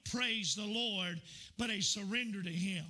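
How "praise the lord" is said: slow, offhand "praise the Lord" tossed out lightly; glib praise. Shown as a demonstration. Preacher mocking a careless churchgoer's offhand praise. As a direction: say it like a throwaway phrase. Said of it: "Not a glib".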